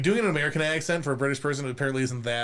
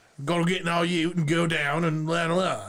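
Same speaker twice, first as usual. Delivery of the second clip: bad put-on Australian accent, shouted; 4 semitones higher than usual. A speaker shows a really bad celebrity impersonation, yelling in an Australian accent. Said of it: "yell with an Australian accent".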